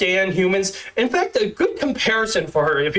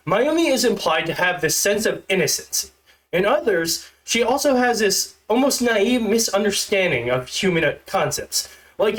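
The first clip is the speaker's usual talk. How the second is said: stiff, awkward script reading; stilted robot reading. Shown as a demonstration. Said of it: "if it sounds like I'm a stilted robot".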